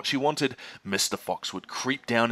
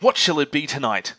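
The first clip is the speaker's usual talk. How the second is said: lightly voiced Mr Fox; 6 dB louder than usual. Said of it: "said Mister Fox".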